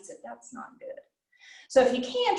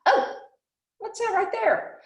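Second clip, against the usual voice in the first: curious bat; 12 semitones higher than usual. Pretend. Bat voiced spotting a fly.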